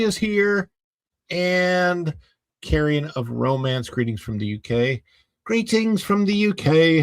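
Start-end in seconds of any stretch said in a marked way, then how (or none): 5.4-7.0 a hammed-up British accent, pitched higher; bad UK accent. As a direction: read the greeting in a clumsy British accent. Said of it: "I probably do a horrible U K accent".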